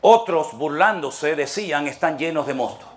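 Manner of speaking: slow, deliberate emphasis on otros; slow rereading. Shown as a demonstration. Pastor rereading the verse to the congregation, slow and deliberate. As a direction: drive the verse home slowly. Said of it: "repeats the read verse".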